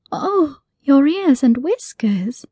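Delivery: slow, drawn-out moan holding back a giggle; Alice overcome, suppressing a laugh; moaning, stifled giggle. Acted. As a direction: sigh it out slowly, fighting a giggle. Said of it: "moaned while stifling a giggle".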